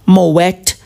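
"Moet," said mo-WET, T clearly pronounced; "Moet," as mo-WET with a rising end; Moet with sounded T. Shown as a demonstration. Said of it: "that's not silent".

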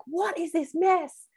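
high, slow mock-scolding mum; exasperated yell, acted without extra volume. Mum coming downstairs to the mess, mock yelling. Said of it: "just yelled".

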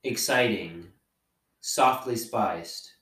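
slow, savoring mock ad read; echoing the ad. Repeating the wine label to cohost, slow and savoring. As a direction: drawl the label words like tasting them. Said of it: "echoing the wine ad".

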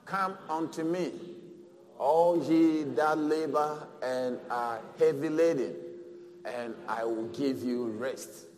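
congregation reading aloud in unison; slow group recitation together; man and woman together. Shown as a demonstration. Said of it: "Can we read together".

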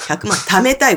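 stuffy nose from a cold; talking through a blocked nose; nasal voice. Real, not acted. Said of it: "ごめんね、鼻声で。".

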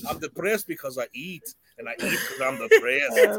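lightly voiced Fat Bastard line; mock-whiny Scottish lament, rising; Fat Bastard quote. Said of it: "I pull that line out".

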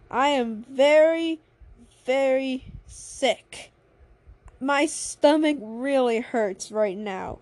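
slow, laboured acted complaint; slow, emphatic pretend sickness; sickly complaint. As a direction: drag out each word as if ill. Acted complaint of being sick.

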